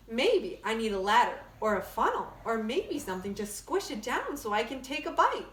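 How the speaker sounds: lively storybook read-aloud; bright picture-book narration; reading to children. Acted. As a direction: read it like story time for kids. Reads picture book to class.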